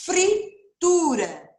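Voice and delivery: Fritura bem lenta, o fr esticado; palavra silabada. Shown as a demonstration. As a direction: alongue cada sílaba de Fritura. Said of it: "é o F que vem antes do R". (Fritura bem devagar)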